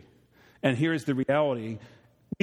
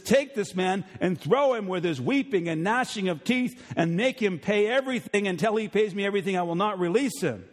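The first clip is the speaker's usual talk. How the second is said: stern king; 6 semitones higher than usual. Retold or imitated. King sentences servant.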